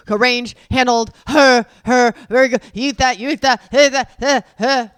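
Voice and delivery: loud, relentless mimicked nagging; mocking commentary. Wife mocking nonstop mealtime commentary, loud and mocking. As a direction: bark out a parody of constant comments.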